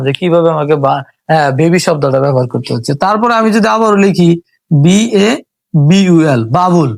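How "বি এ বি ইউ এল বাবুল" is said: বি এ বি ইউ এল said letter by letter, then বাবুল; letters said one by one, then বাবুল blended; spelling out letters. Shown as a demonstration. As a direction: spell slowly and then join the word. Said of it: "এখানে যদি আমি লিখি".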